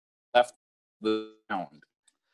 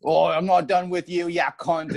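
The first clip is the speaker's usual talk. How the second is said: mock Australian bully; 4 semitones higher than usual. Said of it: "right when he says oi".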